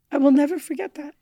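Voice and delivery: ordinary delivery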